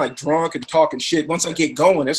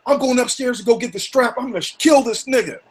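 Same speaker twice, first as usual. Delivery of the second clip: retold threat; 7 semitones higher than usual. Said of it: "his homeboy goes".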